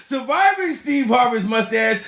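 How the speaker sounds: shouting through a laugh; laugh, then yell it. Real, not acted.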